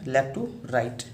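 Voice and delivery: drawn out very slowly, word by word; slow tracing demo. Shown as a demonstration. Teacher tracing a stroke for students, very slowly drawn out. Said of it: "इसका भी direction same है".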